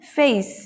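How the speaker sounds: फेस as feys, with an e-ee glide; diphthong. Shown as a demonstration. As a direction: glide through the vowel of फेस. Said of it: "हमें पढ़ना है".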